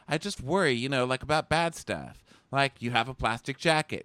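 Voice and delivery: high, fretting girlish impression; mock worried woman. Bachelorette worrying to her suitor, high mock fretting. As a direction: pitch it up into pretend fretting.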